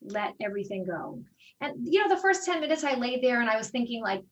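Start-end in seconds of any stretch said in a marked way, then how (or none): 0.0-1.2 softer, soothing teacher voice; yoga teacher calming an anxious student, soft and soothing; calming instructor. Retold or imitated. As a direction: ease them into letting go, softly. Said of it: "calming guy".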